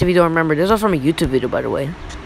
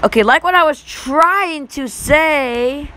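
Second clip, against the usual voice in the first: voice crack; 7 semitones higher, much slower than usual. Real, not acted. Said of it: "that was a voice crack".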